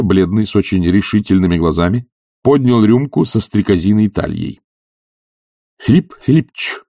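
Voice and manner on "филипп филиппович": higher, moved call of his name; a touch of tearful devotion; heartfelt exclamation. A narrator's reading. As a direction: call out to him, deeply moved. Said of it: "прочувственно воскликнул он".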